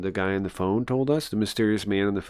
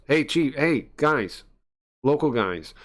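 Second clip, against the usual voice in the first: angry shout; 6 semitones higher, 4 dB louder than usual. Acted. Inspector angrily confronts intruders.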